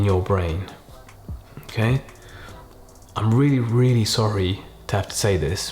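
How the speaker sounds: slow, gentle, quiet delivery with pauses; doctor bad news. Shown as a demonstration. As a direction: break bad news softly and slowly. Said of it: "the main aim here is to be really slow, kind of really use a quiet tone".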